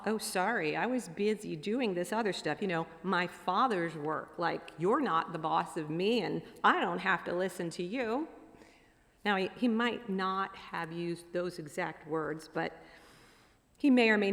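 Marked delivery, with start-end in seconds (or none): 0.0-8.3 lightly acted mouthy teenager; a hint of teenage backtalk to parents; mouthing off. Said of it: "immediately he mouths off".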